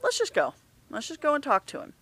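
decide it, pressing forward; firm decision. Retold or imitated. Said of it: "And I finally said".

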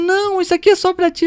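high, loud imitation of an outraged girl; indignant. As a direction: mimic her scandalized protest. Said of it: "a menina chegou revoltada". (imitando uma menina revoltada)

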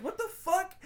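very high mock-outraged cry; mock pissed off. Host retelling the boyfriend's reaction, mock pissed off. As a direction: squawk it in hammed-up indignation. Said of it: "it's like he's pissed off".

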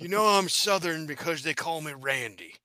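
lightly put-on ballplayer voice; a hint of Jesse Ventura in the voice; Randy Johnson. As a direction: play along with a mild impression. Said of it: "He sounds like Jesse Ventura".

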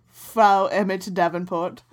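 slow mock German accent; hammy German accent, drawn out. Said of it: "It's my German accent".

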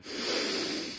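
long unvoiced breath out to relax; slow calming exhale. Shown as a demonstration. Host shows listeners how he calms his nerves, long slow sigh. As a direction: let it all out in a slow sigh. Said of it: "I get a little anxiety".

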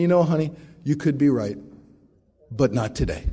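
sweet start, dropping to a dry closer; mild teasing wife; wife's sweet put-down. Retold or imitated. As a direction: let him down gently but firmly. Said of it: "Nancy said to me".

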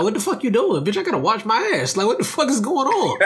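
mock irritated yell. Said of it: "you're like".

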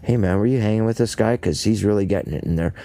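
quick, casual mock question; a hint of a chummy friend asking; lightly voiced casual pal; casual buddy voice. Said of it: "not coming up to him privately and saying".

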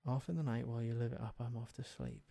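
fast, fading to very soft; quick muttered lyric. Shown as a demonstration. Rereading the lyric, trying to place it. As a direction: run through it quickly under the breath. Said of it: "read again faster, fading".

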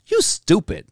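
high mock sassy girl voice; a girl teasing a white classmate, playful high jab; girl's insult. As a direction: squeak it out like a teen girl teasing. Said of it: "a black girl be like".

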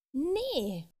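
a stubborn little fairy yelling no; storybook tantrum shout, lightly played. A narrator's reading. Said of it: "schrie die kleine Fee".

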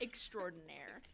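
breathy whispered end of the joke title; whispered punchline. Pretend. Cohost finishing the joke title, whispered. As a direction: whisper the last word.

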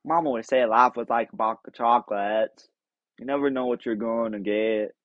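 lightly voiced Southern simple man; Forrest Gump impression. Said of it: "That's Forrest Gump, Tom Hanks".

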